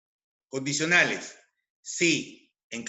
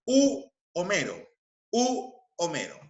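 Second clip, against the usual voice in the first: long "oo" on "u" before "Homero"; stress on "u"; 3 semitones higher than usual. Shown as a demonstration. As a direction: hold "u" apart, then "Homero". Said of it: "Cambia a u".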